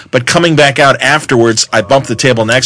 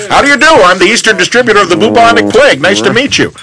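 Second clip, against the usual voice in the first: jolly sick fan; 9 semitones higher than usual. Pretend. Germy fan greets everyone, mock-cheerful and high. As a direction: introduce the plague like a cheerful salesman.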